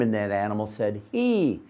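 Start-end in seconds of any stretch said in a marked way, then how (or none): 1.1-1.6 donkey bray. Shown as a demonstration. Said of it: "Can you say that?".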